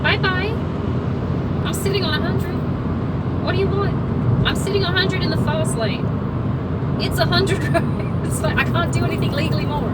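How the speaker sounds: high-pitched mock protest to another driver; exasperated sarcasm. Real, not acted. To the driver tailgating in the fast lane, high exasperated sarcasm. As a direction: protest in a high, put-upon voice.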